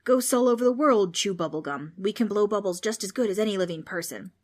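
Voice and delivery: defending ghosts loudly; a hammed-up offended spook; indignant boast.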